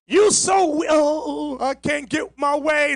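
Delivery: mock the weak husband who can't get his way; mock whiny weak man. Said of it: "A weak, mealy-mouthed, misunderstood nooker".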